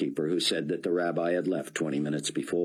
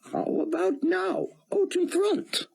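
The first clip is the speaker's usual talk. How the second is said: put-on higher, heavy Hebrew-accented rabbi; thick Hebrew accent. A narrator's reading. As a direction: speak English through a thick Hebrew accent. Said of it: "in his thick Hebrew accent".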